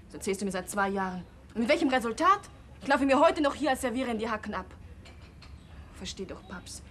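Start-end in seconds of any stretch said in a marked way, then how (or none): 1.5-4.7 bitter outburst. Acted. Daughter bitter at father's promises. 6.0-6.8 much softer, pleading; soft plea. Acted. Daughter softly pleading with her father after the fight.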